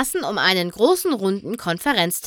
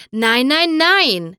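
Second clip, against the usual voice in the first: higher and louder, begging, rising to the last nein; pleading cry; 6 semitones higher, 5 dB louder, slower than usual. A narrator's reading. Paperbuck begs the others not to use the book, crying out. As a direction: cry out desperately to stop them. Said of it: "rief Paperbuck flehentlich".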